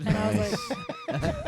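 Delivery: high, breathless laughter through the words; disbelieving laugh at a son's switchblade package; laughing hard. Real, not acted. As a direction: crack up with high-pitched laughter.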